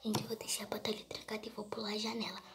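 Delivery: soft unvoiced whisper. Real, not acted. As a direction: whisper so the monster won't hear. Hiding, planning escape.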